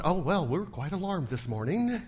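understated, unbothered delivery; mock-composed ladies; mock calm. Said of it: "They're not going".

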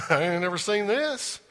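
hammed-up astonished apostle; imitating astonished John. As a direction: play John floored by the vision, breathless and amazed. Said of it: "I don't know if he said it like that or not".

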